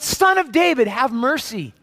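a stronger reenacted cry for mercy. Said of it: "he yelled all the louder".

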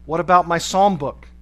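loud, challenging comeback; defiant retort. A narrator's reading. Prisoner answering the guard's order, loud and defiant. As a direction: throw the demand straight back, loudly.

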